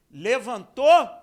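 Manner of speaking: triumphant stretched Levantou; stressed Levantou. Acted. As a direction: hit Levantou hard and slow. Preacher stresses the key verb.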